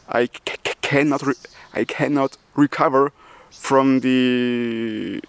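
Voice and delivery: real stutter, blocked on "c-"; catching on the hard "c-". Real, not acted. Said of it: "you hear it first person, I stutter".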